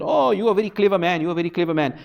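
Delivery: mock compliment, lightly voiced; mocking praise. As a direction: tease him with fake admiration. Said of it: "so they mocked him and said".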